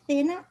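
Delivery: "thin" with a th at the start; th sound. Shown as a demonstration. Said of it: "an S with a th".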